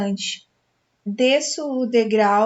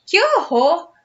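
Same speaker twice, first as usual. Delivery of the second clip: horrified; 6 semitones higher than usual. A narrator's reading. Frightened girl flees ghost.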